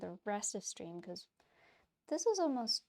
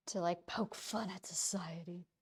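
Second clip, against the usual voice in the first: whispered aside; 2 semitones lower than usual. Real, not acted. Cheeky aside about fine art.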